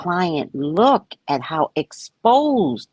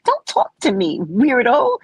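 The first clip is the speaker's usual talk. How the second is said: mock dismissive; 7 semitones higher, slower than usual. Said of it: "they would look at me like".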